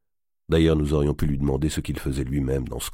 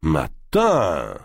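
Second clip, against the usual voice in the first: exclaiming. Acted. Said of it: "s'écria-t-il".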